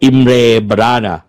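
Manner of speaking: a hint of a British accent on อิมเรบานาน่า. Shown as a demonstration. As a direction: say อิมเรบานาน่า lightly British, stress on อิม. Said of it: "แต่พอเป็นสำเนียงบริติชอะ".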